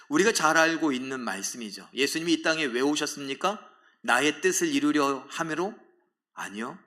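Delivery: ordinary delivery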